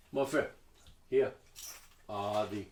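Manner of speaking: put-on halting, lightly done French accent. Shopkeeper showing a customer her choices, mock French accent. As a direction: present the goods with an attempted French accent. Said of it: "pretend this is in a French accent".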